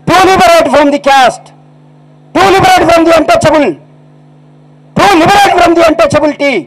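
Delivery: high, ringing orator's list of titles; fiery preaching. Acted. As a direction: preach it to the crowd at full force. Orator rousing crowd. (సభలో ఉద్రేకంగా ప్రసంగించడం)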